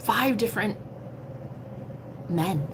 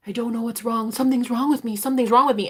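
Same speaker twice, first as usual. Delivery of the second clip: higher-pitched imitation of a distressed man; mock crying, groveling; 4 semitones higher than usual. Man in pain telling her something is wrong, imitated crying. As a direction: imitate someone pleading in anguish. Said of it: "He was crying, groveling".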